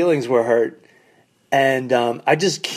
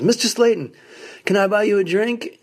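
higher, eager fan offering a drink; 7 semitones higher than usual. Retold or imitated. Fan eagerly offering Bobby Slayton a drink, higher eager voice. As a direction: play the keen fan sucking up.

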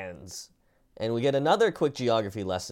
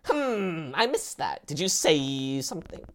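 mock innocent guard; 6 semitones higher than usual. Guard feigning deafness.

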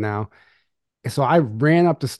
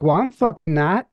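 mock indignant girlfriend; 7 semitones higher, 4 dB louder than usual. Girlfriend snapping back.

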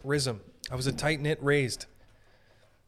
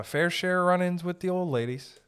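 high, raised voice; high-pitched; 6 semitones higher than usual. Real, not acted. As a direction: pitch the whole sentence up high. High take, then usual voice.

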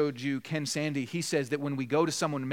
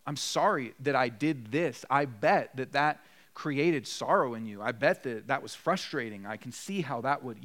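gentle apology. Shown as a demonstration. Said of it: "You acknowledge the hurt".

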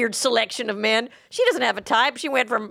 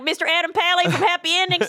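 put-on Armenian accent; 6 semitones higher than usual. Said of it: "That's my good Armenian accent".

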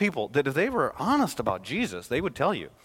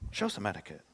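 softer, lower hushed rebuke; a quiet mocking echo of the crowd; mock hushing; 6 semitones lower, 11 dB quieter than usual. Preacher echoes the crowd's rebuke, softer and lower. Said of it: "be a nice religious person and quiet down".

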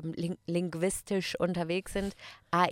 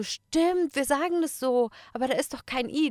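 much higher, louder student voice; mock astonished realisation; 7 semitones higher, 5 dB louder than usual. Students noticing their own mistake, high astonished voice. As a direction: voice sudden discovery, pitched way up.

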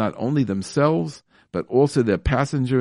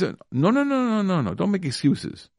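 firm rejection; 7 semitones higher than usual. Real, not acted. Rejecting excuses.

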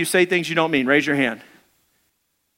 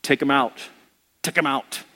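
low, slow prayer to take them out; mock-grim lowered pleading; praying for enemies' destruction, low and slow; vengeful prayer; 6 semitones lower than usual. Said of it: "prayers like".

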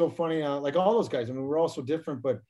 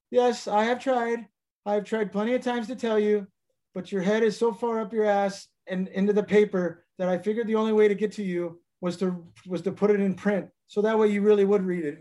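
Bobby Holik voice; 6 semitones higher than usual. Retold or imitated. Teammate lecturing him from the driver's seat, higher put-on voice. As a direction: imitate a teammate, pitched up and deliberate. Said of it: "I'll do the Bobby Holik voice".

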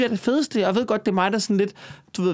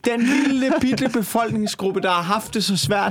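mock pity; 4 semitones higher than usual. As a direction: plead in mock sympathy for a hard-done-by minority. Sarcastic plea for poor billionaires.

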